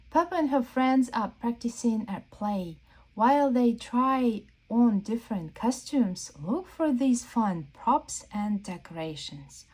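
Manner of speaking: bright storybook read-aloud; reading to children. Acted. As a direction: read the book's page to the kids. Reads the book's printed text.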